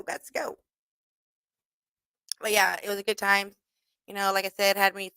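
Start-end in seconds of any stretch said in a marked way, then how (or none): 0.0-0.6 whispered. Retold or imitated.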